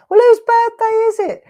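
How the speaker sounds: high, loud mock puzzled viewer. Host mimics the viewers wondering whose birthday it is, in a high puzzled voice. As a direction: play the confused audience asking. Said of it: "And now you're going".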